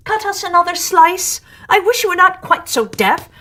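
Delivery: high, loud, impatient voice; grumpy carpenter. Acted. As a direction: bark the order at a deaf partner. Carpenter snaps at the walrus.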